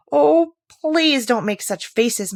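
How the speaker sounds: loud, slow, high plea through laughter; cried out. Acted. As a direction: cry it out, drawn out. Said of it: "she cried out".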